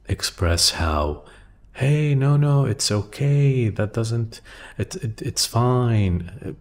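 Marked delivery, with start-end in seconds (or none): 1.7-6.6 high-pitched, insistent reassuring; over-eager reassurance. Retold or imitated. People going out of their way to excuse a change, high-pitched reassurance. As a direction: go out of your way to reassure, voice lifted high. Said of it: "we go out of our way to".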